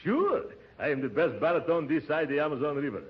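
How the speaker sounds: hammed-up Brazilian accent. Disguised uncle greeting the receptionist, mock Brazilian accent. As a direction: play the suave Brazilian baritone. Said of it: "don't forget your Brazilian accent".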